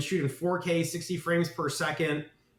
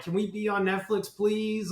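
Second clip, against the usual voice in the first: higher-pitched wheedling plea; put-on pleading, pitched up; mock pleading; 5 semitones higher than usual. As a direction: beg in a mock-needy voice. Imitating begging for Netflix.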